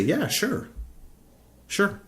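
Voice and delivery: high, mock-eager yeah sure; sarcastic yeah sure. Voicing voters, sarcastic assent.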